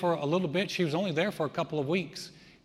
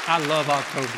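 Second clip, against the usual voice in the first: joyful; 9 dB louder than usual. Real, not acted. Joyful remark after conversion story.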